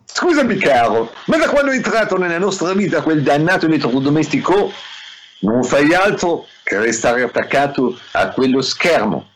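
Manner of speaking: high-pitched mock French accent; French accent wife. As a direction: plead with her husband in a French voice. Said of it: "sto anche facendo l'accento francese". (accento francese caricato, voce acuta)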